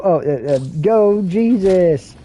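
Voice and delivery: hesitant, slow cheer with nervous fillers; sheepish kids. Retold or imitated. Kids caught by Jesus' glare, sheepish halting cheer. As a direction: backpedal nervously into a weak cheer. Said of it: "and they go".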